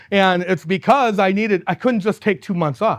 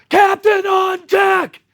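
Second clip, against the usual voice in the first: drawn-out naval shout, much higher and louder; yelled command; 11 semitones higher, 4 dB louder, much slower than usual. Retold or imitated. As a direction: bellow it like a deck officer announcing the captain. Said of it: "somebody yelled at the top, top of their lungs".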